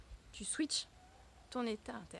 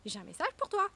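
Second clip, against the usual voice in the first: "message" called out higher and louder, like pounding on the door; postman calling louder; 9 semitones higher, 6 dB louder than usual. Pretend. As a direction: call it again, knocking harder this time. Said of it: "je vais frapper plus fort".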